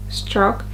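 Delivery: STROKE with a brief, glideless vowel; short O. Shown as a demonstration. Teacher contrasting with the prolonged version, short O in STROKE. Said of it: "So instead of stroke".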